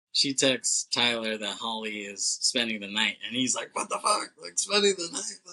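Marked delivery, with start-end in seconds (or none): 3.8-5.4 high-pitched mock outrage, pitch jumping way up; retold panicked disbelief, high voice; imitating a freak-out. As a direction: squeal it like someone freaking out, half laughing. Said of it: "he's freaking out".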